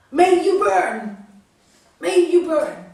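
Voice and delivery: loud, slow furious curse; angry curse. Acted. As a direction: hurl the curse at the bird. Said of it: "he gets really angry".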